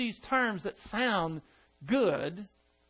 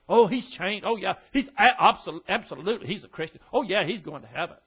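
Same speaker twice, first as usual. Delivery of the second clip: louder, laughing mock approval; mock gushing churchgoers; 4 dB louder than usual. Preacher mocking churchgoers praising a changed man, gushing and laughing.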